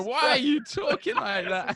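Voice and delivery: laughing mock question. Retelling the guys mocking how he talked. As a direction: ask it through laughter. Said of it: "the guys go".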